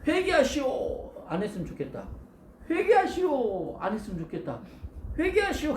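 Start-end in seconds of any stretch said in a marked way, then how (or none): 0.1-1.1 high, slow grudging call; a prophet who hopes nobody listens; reluctant proclamation. Retold or imitated. 요나는 기분이 안 좋아요. 2.7-3.8 high, slow grudging call; a prophet who hopes nobody listens; reluctant proclamation. Retold or imitated. 요나는 기분이 안 좋아요. 5.2-5.7 high, quick grudging call; reluctant proclamation. Retold or imitated. 요나는 기분이 안 좋아요.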